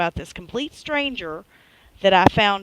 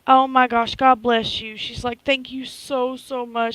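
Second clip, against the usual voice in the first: ecstatic; 4 semitones higher than usual. Retold or imitated. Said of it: "like, ecstatic".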